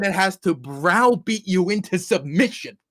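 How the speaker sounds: mock preacher, loud and fervent; megalomaniac rant. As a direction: ham up a patriotic sermon.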